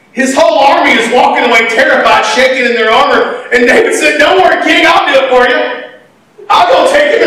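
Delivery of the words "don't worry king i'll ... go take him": bright eager reassurance to the king; eager boy. Acted. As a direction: boast like a fearless kid.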